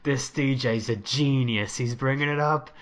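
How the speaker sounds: loud, hammed-up club enthusiast; mock hype, pushed out loud; hyped club guy. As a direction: imitate a guy raving about the DJ. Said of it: "the guy is like".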